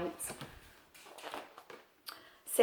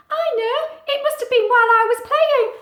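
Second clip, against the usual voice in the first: Ula; 13 semitones higher, 12 dB louder than usual. Acted. Ula plans to fly back.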